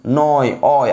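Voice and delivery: "নয়" then "অয়", each set apart; teacher's demonstration of "অয়" within "নয়"; sounded-out syllables. Shown as a demonstration. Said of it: "নয়ের পরে উচ্চারণ করো".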